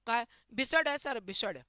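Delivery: loud, rustic "bisad" for "wizard"; village kid. Retold or imitated. Village student loudly asking the teacher about the word. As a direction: call out like an eager village child.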